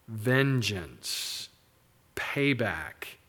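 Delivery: breathy whispered payback; sermon punchline whispered. Real, not acted. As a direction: drop to a hushed whisper for effect.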